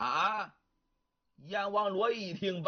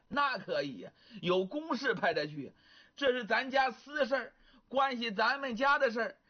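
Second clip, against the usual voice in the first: lightly voiced wife refusing firmly; insistent wife; 3 semitones higher than usual. Wife rejects outsider, insistent.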